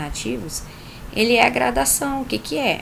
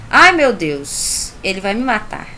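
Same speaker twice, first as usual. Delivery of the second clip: emphatic dismay; 5 dB louder than usual. Shown as a demonstration. Teacher rereading God's line with exaggerated alarm. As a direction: stretch out "Ai" in mock despair. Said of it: "Nós temos a apóstrofe".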